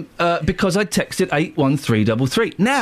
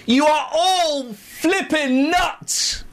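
slow, higher, half-laughing mock yell; furious outburst; 9 semitones higher, much slower than usual. Host retells yelling at the delivery company, mock furious. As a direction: relive losing your temper, laughing. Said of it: "I was going mental now".

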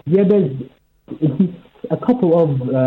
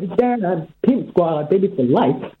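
muffled phone. Real, not acted. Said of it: "no idea what that was".

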